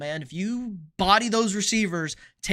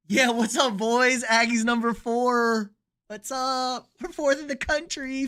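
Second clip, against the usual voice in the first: higher, excited bragging; hyped up; 6 semitones higher, slower than usual. Real, not acted. Streamer bragging to chat about Aggies ranking, excited and high. Hyping his ranked college team.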